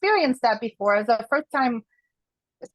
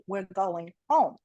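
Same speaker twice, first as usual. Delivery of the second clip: slow, low, final; firm slow repeat; 4 semitones lower, slower than usual. Retold or imitated. Mother refusing her friends' pleas, slow firm repeat. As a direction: say it slowly, leaving no room.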